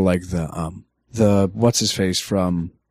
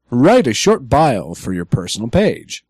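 automated-announcer style guideline read; measured announcer delivery with swooping emphasis. Shown as a demonstration. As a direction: read the rules like an official recorded announcement. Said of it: "I'm using my announcer voice".

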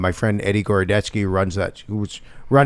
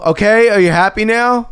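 exasperated character voice; 9 semitones higher, 3 dB louder than usual. Retold or imitated. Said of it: "and I go".

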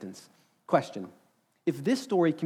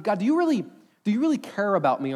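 higher, louder imploring question to God; pleading; 5 semitones higher, 4 dB louder than usual. Acted. A believer lost in the crowd asks God, pleading.

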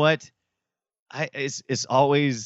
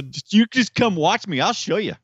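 higher, pleading player voice; the accused player inviting a check, in a higher put-on voice; voicing the player; 10 semitones higher, 3 dB louder than usual. Accused player daring doubters to watch, voiced higher. Acting out the Korean player's reply.

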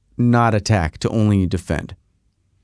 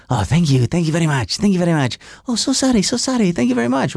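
higher, sing-song stereotyped Japanese politeness; mocking Japanese stereotype; 3 semitones higher than usual. Mocking how films show Japanese people speaking. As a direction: ham up the movie cliché of endless thanks. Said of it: "they're always saying".

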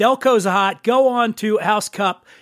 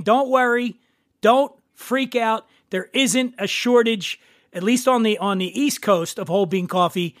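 calm reassurance; 2 semitones higher than usual. Retold or imitated. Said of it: "Mark is saying".

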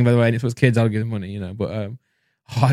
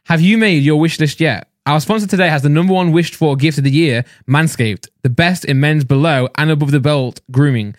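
ad read; 3 semitones lower than usual. Real, not acted. Reads the sponsor advert.

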